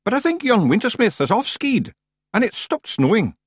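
a small Scots warrior, miserable; miserable Feegle. Acted. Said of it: "Rob went on miserably".

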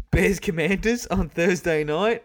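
rising thrill over the Thursday game; real excitement building as he talks football; excited. Real, not acted. Thrilled about Thursday night game.

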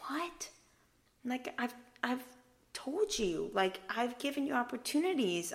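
imitated wounded astonishment; hurt disbelief. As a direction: protest as if let down. Voices Jesus hurt and incredulous.

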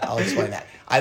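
laughing through the words; amused, laughing as he says it. Real, not acted. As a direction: chuckle while promising to explain. Laughing over his own joke.

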